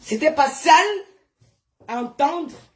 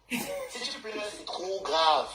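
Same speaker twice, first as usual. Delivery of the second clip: much softer and lower, almost breathed; mock-menacing low warning; hushed ominous warning; 7 semitones lower, 11 dB quieter, slower than usual. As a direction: drop to a low, secret threat. Warning followers not to cry.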